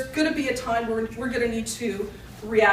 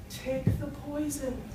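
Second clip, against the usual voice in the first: softer, drawn-out punchline; slow and deliberate; 3 semitones higher, 6 dB quieter than usual. Acted. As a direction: deliver it slowly, as a rabbi's grave advice. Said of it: "he slowly says".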